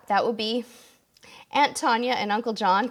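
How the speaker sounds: tired, hoarse voice at day's end; losing her voice. Real, not acted. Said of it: "I'm kinda losing my voice".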